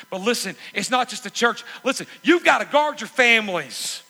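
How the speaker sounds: high, loud, driving preacher's exhortation; impassioned sermon climax, high and loud; full-force preaching. Acted. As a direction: lift it and press every line on the church.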